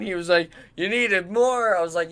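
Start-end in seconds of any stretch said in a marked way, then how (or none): 0.8-1.8 high, loud, drawn-out disbelief; mock incredulity. Friend questioning player's plea for more, mock disbelief. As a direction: slowly echo it back, pitched way up.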